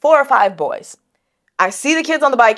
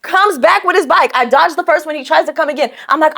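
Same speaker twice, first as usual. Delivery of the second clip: ordinary talk, nothing marked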